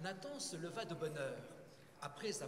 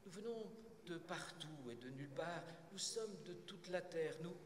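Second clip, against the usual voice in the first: calm. Acted. Shepherd answering the impatient census taker, calm. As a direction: answer serenely at the usual pitch. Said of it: "répond avec calme".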